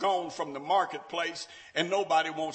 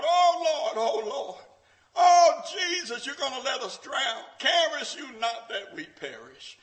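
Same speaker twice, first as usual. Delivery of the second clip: panicked cry; 7 semitones higher, 8 dB louder than usual. Acted. Disciples crying out in storm.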